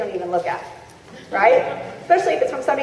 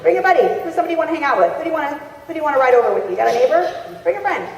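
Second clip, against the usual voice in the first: higher, upbeat call to bring a buddy; cheerful invite; 4 semitones higher, faster than usual. Shown as a demonstration. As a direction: sound delighted and casual. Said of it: "Just like".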